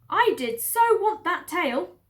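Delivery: high, slow, loud whine; whiny Mabel. Acted. Farm woman whines about the tail, high and slow. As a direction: sulk it out slowly.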